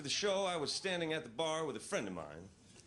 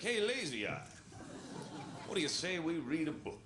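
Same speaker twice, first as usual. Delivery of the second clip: perky motivated eye; 3 semitones higher than usual. Acted. Motivated eye voiced in joke.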